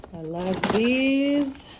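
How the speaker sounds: slow happy gush; drawn-out delight. Real, not acted. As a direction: savour the words with delight. Showing favorite snack.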